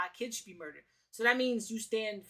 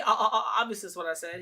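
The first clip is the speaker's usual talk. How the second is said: mock stutter; 5 dB louder, faster than usual. Streamer replays the guest's slip, mocking stammer. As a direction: repeat the o, then finish flat. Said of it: "He stuttered a little bit".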